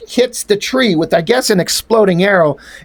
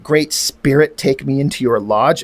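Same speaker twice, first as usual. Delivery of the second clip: parroting the line back with scorn; mocking repeat; 6 semitones lower than usual. Mocking the comic's cliche line to the viewers. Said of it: "it reads like cliche stuff".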